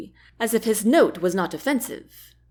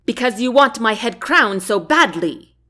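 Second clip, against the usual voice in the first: snapped; 4 dB louder than usual. Acted. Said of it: "Andrea snapped".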